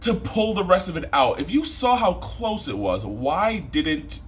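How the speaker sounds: high, indignant complaining at the surgeons; exasperated rant. Real, not acted. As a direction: pitch it way up in disbelief. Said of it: "I'm mad".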